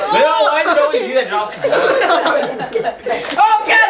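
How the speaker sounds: laughing shout after a splash; sprayed with water. Real, not acted. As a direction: yelp while getting soaked. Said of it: "you got me wet".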